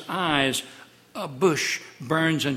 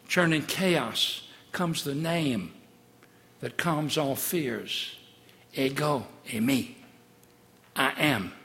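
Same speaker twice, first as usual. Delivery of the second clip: calm, slowed reassurance; slower than usual. Acted. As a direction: let the name calm all fears. Calm after the storm.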